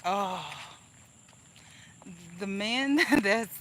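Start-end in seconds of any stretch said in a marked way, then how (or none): 2.4-3.6 slow and laughing, louder; giggling as the memory comes back. Real, not acted. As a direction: laugh through it slowly. Laughing while retelling.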